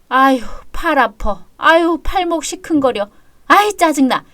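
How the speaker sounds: irritated groaning complaint, pitch climbing; weary, annoyed moaning; grumbling in pain. Acted. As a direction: grouse about an aching arm. Sore arm, grumbling at her chores.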